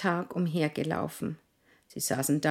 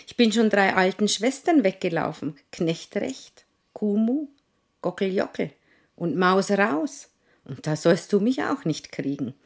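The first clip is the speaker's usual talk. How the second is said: rufend; 4 semitones higher, 4 dB louder than usual. Acted. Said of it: "rief der Pfannkuchen".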